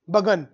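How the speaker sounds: बगन with an unstressed "uh" in the first syllable; pronunciation of begun. Shown as a demonstration. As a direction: say बगन as "buh-GUN". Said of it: "pronunciation करते हैं बगन".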